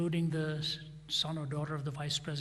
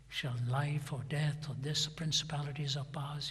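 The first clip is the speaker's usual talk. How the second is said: hushed scripture reading. Retold or imitated. Reading Romans chapter eight aloud.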